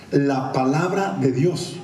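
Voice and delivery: slow, deliberate statement; slow emphasis. Real, not acted. Preacher driving home his point, slow and deliberate. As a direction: draw out each word.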